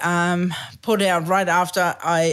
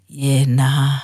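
Kiwi yeah nah; 7 semitones lower, 3 dB louder than usual. Retold or imitated. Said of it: "every single country in the world says".

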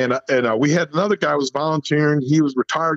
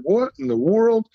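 drawn-out, higher exasperated outburst; 8 semitones higher than usual. Retold or imitated. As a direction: let the frustration stretch the question out. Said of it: "and I'm getting mad".

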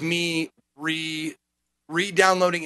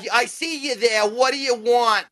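Janine; 5 semitones higher than usual. Acted. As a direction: do a bad receptionist impression, pitched up. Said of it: "tries to do, like, a Janine".

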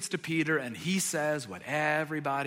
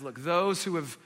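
gentle correction; 2 semitones lower than usual. Retold or imitated. Jesus calmly redirecting Peter's excess, gentle. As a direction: gently settle an overexcited friend. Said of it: "gently kind of discourages".

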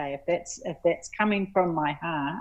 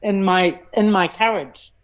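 louder, real emotion pushing through; getting emotional; 2 semitones higher, 5 dB louder than usual. Real, not acted. Guest finishing a hard admission, emotional. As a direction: push the words out through feeling. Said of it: "I'm gonna get really emotional here".

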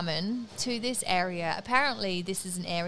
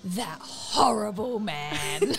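disapproving mum; slower than usual. Retold or imitated. Mum's disapproving comment.

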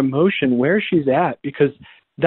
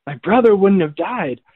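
higher-pitched, accusing retelling; imitated angry reproach; 5 semitones higher than usual. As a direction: act out a grieving sister's reproach. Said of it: "You can hear the anger in that".

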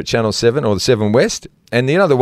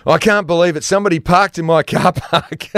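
mock indignant Rhino; 6 semitones higher than usual. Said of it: "and he goes".

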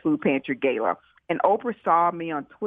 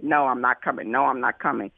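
retold firm refusal; 5 semitones lower than usual. Quotes Oprah's repeated refusals.

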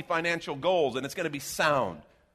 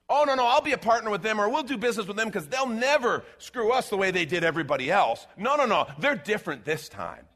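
mock naive partner; 5 semitones higher, 4 dB louder than usual. Mocking naive business partner.

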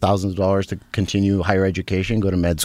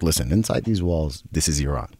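a hint of a strict immigrant dad; stern dad; 3 semitones higher than usual. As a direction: lay down the house rules like a strict father. Father quoted laying down rules.

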